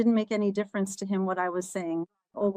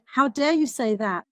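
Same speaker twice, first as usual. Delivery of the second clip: retold angry refusal; 2 semitones higher than usual. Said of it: "I got even angrier and said".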